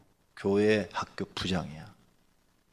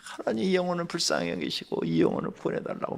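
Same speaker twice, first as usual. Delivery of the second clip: raised-pitch plea to God; retold prayer; 6 semitones higher, 3 dB quieter than usual. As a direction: reenact an earnest intercession. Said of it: "막 기도했죠".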